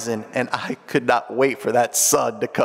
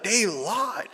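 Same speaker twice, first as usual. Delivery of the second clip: high but softer mock kid voice; recalled child's protest; 7 semitones higher, 5 dB quieter than usual. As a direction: lightly imitate the child's protest. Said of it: "So I'll never forget that".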